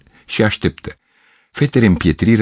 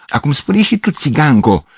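calling out; 8 semitones higher than usual. A narrator's reading. The Greek girl calls the gypsy girl to speak, a high call. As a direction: call her out across the room. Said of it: "strigă Grecoaica".

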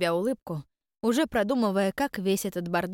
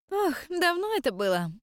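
put-on old spirit voice; 10 semitones higher than usual.

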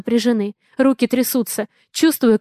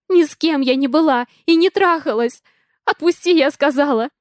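desperate shout; 4 semitones higher than usual. Acted. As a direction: yell it to break free. She fights his grip.

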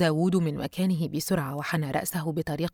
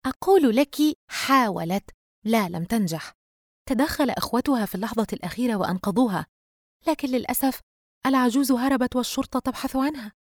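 higher-pitched, lively retelling; lightly voiced friend setting her straight; emphatic best friend; 6 semitones higher than usual. Friend corrects Yusra and finishes the news, emphatic.

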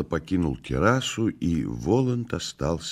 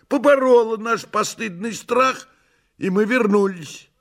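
Behemoth the cat, pompous; 4 dB louder than usual. Acted. Behemoth joining the tale, high pompous voice. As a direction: declare it high and grandly.

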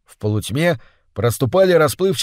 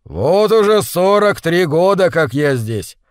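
dignified; 3 semitones higher, 4 dB louder, slower than usual. Acted. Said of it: "с достоинством произнёс Бодум".

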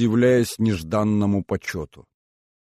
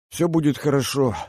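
exaggerated cheerfulness; 6 semitones higher than usual. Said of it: "с преувеличенной жизнерадостностью".

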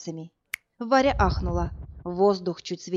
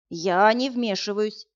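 curt cutoff; 2 semitones higher, 3 dB louder, slower than usual. Acted. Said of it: "жёстко обрубил её дед".

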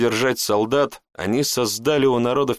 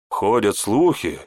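ordinary delivery, nothing marked

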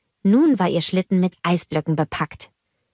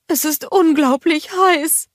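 higher, put-on voice for Gerda; Gerda character voice; 11 semitones higher, 4 dB louder than usual. A narrator's reading. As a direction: play Gerda with her head in the icebox. Gerda complains of heat.

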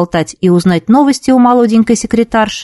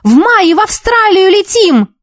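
excited call; 11 semitones higher than usual. A narrator's reading. Girl running down the corridor calling friends, excited. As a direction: shout for everyone with big news. Announcing trip news to everyone.

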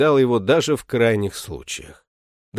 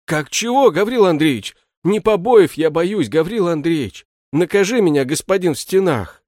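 put-on higher, louder, a frightened drunkard begging the butler; pleading shoemaker; 6 semitones higher, 5 dB louder than usual. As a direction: plead with him, pitch up in alarm. Shoemaker pleading his dignity. (жалобный испуганный голос башмачника, выше и громче)

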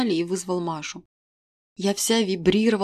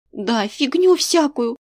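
tossed off; 6 semitones higher, 5 dB louder, slower than usual. A narrator's reading. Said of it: "бросила Маша".

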